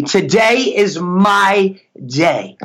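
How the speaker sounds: slow, measured affirmation; repeat-after-me declaration. Shown as a demonstration. Coach leading listeners to repeat after him, slow affirmation. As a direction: say it slowly, leaving room to repeat. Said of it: "you could just repeat after me".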